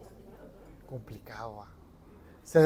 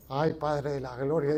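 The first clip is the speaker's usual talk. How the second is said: mock fright; 6 semitones lower, 9 dB quieter than usual. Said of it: "ya me asusté".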